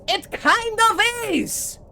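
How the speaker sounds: very high, loud, drawn-out comeback; cheeky retort. Acted. Pirate answering the wizard's rebuke, loud cheeky retort. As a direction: call it back slowly at the top of your pitch. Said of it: "And Silva goes".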